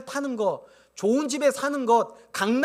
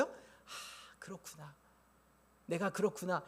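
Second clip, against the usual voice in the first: quiet realization; 3 semitones lower, 15 dB quieter than usual. Retold or imitated. Inner heart admits fault quietly.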